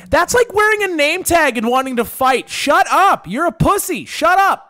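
high-pitched, worked-up comic rant; mock scolding. Comedian heckling absent gangbangers, high exasperated scolding. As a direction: tell them off, pitch climbing on each jab.

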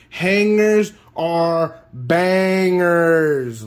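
slow, stretched hype chant; drawn-out catchphrase. Real, not acted. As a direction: savour every word of it. Repeats catchphrase slowly, drawn out.

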